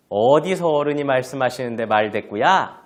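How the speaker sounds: loud indignant rebuke; acted parental telling-off, cutting the child short; scolding again. Parent stops child from talking back, scolding indignantly. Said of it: "다시 야단칠 때".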